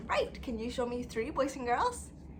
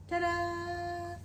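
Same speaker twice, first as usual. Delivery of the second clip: excited; 6 semitones higher than usual. Acted. Reveal of the board.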